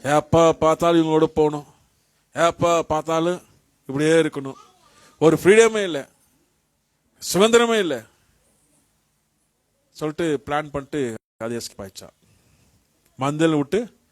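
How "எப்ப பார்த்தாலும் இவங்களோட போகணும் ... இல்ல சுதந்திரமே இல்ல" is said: loud, fed-up grumbling as a restless sheep; disturbed sheep complaining. Acted. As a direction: act out a loud complaint of feeling penned in. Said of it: "ஒரு ஆடுக்கு வந்து ரொம்ப disturb ஆயிடுச்சு". (சலித்துப்போன ஆட்டின் உரத்த புலம்பல்)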